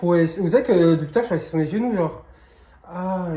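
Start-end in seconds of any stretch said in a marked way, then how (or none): 2.9-3.3 short groan at a leg cramp; real cramp groan. Real, not acted. Stopping the video for a cramp, pained groan. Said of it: "je vous jure, c'est une crampe".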